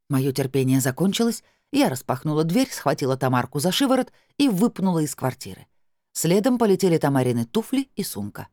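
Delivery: usual speaking voice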